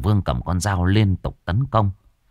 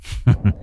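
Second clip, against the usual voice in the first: short scoffing laugh; 2 semitones higher than usual. Acted. Villain scoffs at stunned father.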